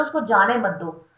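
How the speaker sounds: normal talking voice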